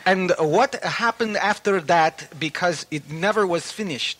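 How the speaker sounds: put-on reading a letter in a botched British accent; bad British accent. Host reading a listener letter in a bad British accent. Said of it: "That's a terrible imitation".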